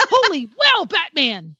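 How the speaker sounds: high-pitched sidekick exclamation; comic-book cry of amazement to the hero; Robin. Acted. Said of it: "I feel like Robin every time".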